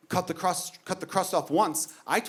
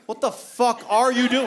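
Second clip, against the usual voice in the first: higher, louder, slowed and laughing; mock outraged dad yell; 7 semitones higher, 5 dB louder than usual. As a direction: ham up repeating the kid's line at him. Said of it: "I'm like".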